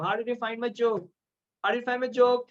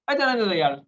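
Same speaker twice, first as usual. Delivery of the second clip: a louder, easy "let it go"; casual brush-off; 4 dB louder, faster than usual. Shown as a demonstration. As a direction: toss it off casually to a friend. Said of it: "Hindi में बोलता हूँ". (बेपरवाह अंदाज़ में)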